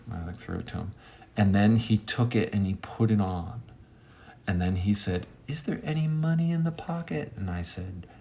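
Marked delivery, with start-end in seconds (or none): 5.5-7.3 high, soft monotone question; really high voice. Retold or imitated. Shirtless man given a flannel shirt, high voice. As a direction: imitate the high-voiced beggar asking. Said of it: "In a really high voice".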